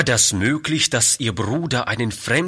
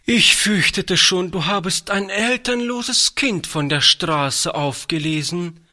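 higher-pitched, visibly relieved aunt; 8 semitones higher than usual. A narrator's reading. Aunt to her brother after fearing the worst, relieved. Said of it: "meinte Charlotte sichtlich erleichtert".

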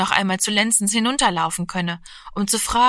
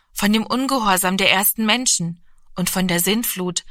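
ordinary delivery

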